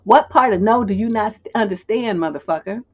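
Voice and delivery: forceful, exasperated challenge; blunt refusal. Shown as a demonstration. Demonstrating what to say to someone bugging you, blunt. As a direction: hit it hard at the start, no ambiguity. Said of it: "That's what you say".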